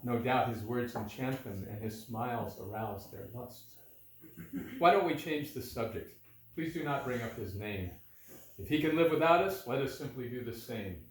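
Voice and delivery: measured storytelling in metre; verse narration. A narrator's reading. Reading Balaram's visit to listeners, measured verse narration. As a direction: read it as rhymed verse, phrase by phrase.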